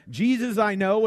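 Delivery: P=A; emphatic. Shown as a demonstration. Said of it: "that's emphatic".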